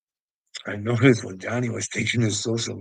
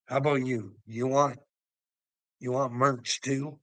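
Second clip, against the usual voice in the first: ordinary delivery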